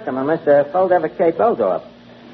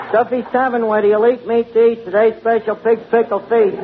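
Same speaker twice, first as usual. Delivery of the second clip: higher, sing-song tavern phone greeting; recited phone greeting; 4 semitones higher than usual. Acted. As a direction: rattle off the rhymed greeting like a slogan. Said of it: "say that poem you made up".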